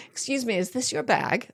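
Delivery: soft, polite security check query; polite question. Retold or imitated. Guard asking a traveller politely, soft polite question. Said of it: "they don't say".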